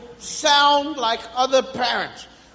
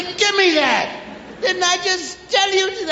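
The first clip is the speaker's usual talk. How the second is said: higher-pitched parental scolding; 5 semitones higher than usual. Acted. Parent to child who took the drink, scolding. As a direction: tell off a child caught drinking it, exasperated.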